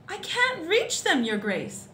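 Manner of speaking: high, drawn-out call down from above; storybook gardener calling out; calling back. A narrator's reading. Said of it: "the gardener called back".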